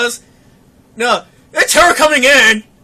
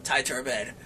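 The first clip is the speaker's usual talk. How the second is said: low, soft muttered denial; retold mumbling, sinking quieter; muttering; 8 semitones lower, 6 dB quieter than usual. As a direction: mutter it to yourself, disbelieving. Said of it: "All I hear is muttering".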